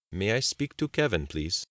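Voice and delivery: careful, measured phone request in Abdul's voice; slow, deliberate. A narrator's reading. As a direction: speak deliberately, as if choosing each word. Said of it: "to speak slowly and deliberately".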